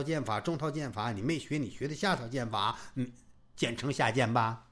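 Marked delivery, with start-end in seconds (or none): none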